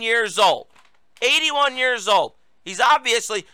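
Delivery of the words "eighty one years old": higher, stressing eighty-one in disbelief; incredulous repeat. Real, not acted. Host scoffs at the president's age, incredulous. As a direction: hit "Eighty-one" like you can't believe it.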